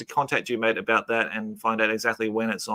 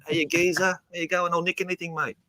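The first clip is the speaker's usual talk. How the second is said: hammed-up London geezer accent, a bit higher; 6 semitones higher than usual. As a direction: play a cheeky London orc in a geezer accent. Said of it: "I love all those accents from the U K".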